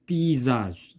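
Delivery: "Paysage" with the S voiced as Z; S prononcé Z. Shown as a demonstration. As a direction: say "Paysage" with a clear z sound for the S. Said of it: "donc se prononce Z". (« Paysage » avec le S prononcé Z)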